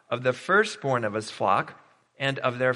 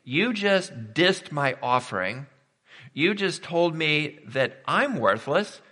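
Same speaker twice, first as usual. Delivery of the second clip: indignant Cain; 2 semitones higher than usual. Retold or imitated. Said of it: "because Cain, like".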